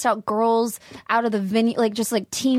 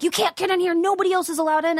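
higher-pitched retold gatekeeper; mock strict refusal; 8 semitones higher than usual. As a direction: lightly imitate someone turning her away. Retold refusal at festival door.

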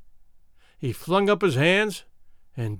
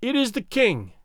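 thin reedy voice; 5 semitones higher than usual. Acted. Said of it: "piped out a thin voice".

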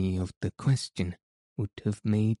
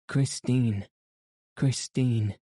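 a touch of a despairing moan, raised; moaning call; 3 semitones higher than usual. Acted. Raoul calling for the vanished Christine, moaning. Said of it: "he moaned".

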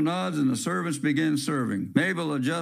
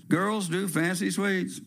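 reassuring; 5 semitones higher than usual. Acted. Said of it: "he reassures".

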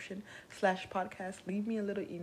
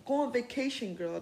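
louder, pushy order; too aggressive; 4 semitones higher, 3 dB louder than usual. Shown as a demonstration. Telling people to rest, too aggressively. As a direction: shove the advice at them. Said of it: "Don't be aggressive with it".

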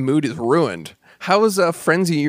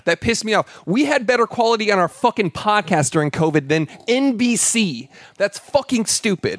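higher, heated fed-up tirade; real rant; 5 semitones higher than usual. Real, not acted. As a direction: vent your irritation full steam. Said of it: "I am so mad".

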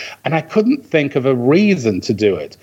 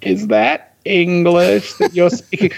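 slow, higher-pitched mock American amazement; awestruck American; 5 semitones higher, slower than usual. Briton mimicking Americans hearing his accent, awestruck. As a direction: draw it out like an astonished American listener. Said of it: "They'll go".

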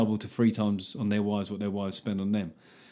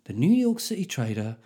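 bedtime story. Pretend. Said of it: "that'd be a nice little bedtime story".

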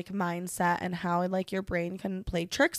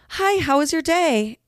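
higher, louder customer-service hello; chirpy cashier greeting; 7 semitones higher, 7 dB louder than usual. Retold or imitated. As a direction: imitate an upbeat cashier's greeting. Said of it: "the cashier person or whatever".

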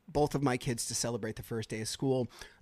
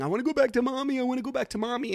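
imitating son; 11 semitones higher, 5 dB louder, faster than usual. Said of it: "he was saying".

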